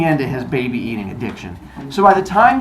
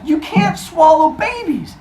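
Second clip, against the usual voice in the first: high scolding; 13 semitones higher, slower than usual. Retold or imitated. Rhea scolds.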